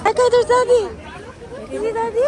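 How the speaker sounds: high, loud, excited greeting; excited calling out. Real, not acted. Parent pointing Daddy out to the child, excited calling out. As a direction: call out the big news, high and thrilled.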